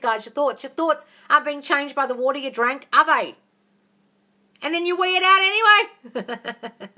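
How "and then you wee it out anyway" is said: loud, high and drawn out; slow, high cry of disbelief; incredulous mocking. Real, not acted. Coach ridiculing drinking affirmed water, incredulous loud mocking.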